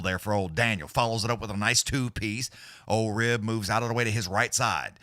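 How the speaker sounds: quick fight-call patter; live play-by-play. Acted. Streamer calling the fight live for viewers, play-by-play. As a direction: call every punch as it lands.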